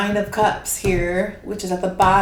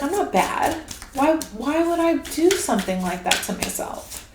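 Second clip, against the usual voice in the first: put-on inner child; 5 semitones higher than usual. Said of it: "And your child's like".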